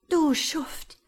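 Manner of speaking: high, loud furious insult; Shirley cursing him through tears; scolding cry. A narrator's reading. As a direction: hurl the word at him. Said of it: "schimpfte sie".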